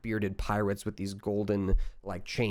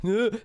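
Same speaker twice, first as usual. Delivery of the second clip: guttural groan; 10 semitones higher than usual. Retold or imitated. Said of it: "a guttural".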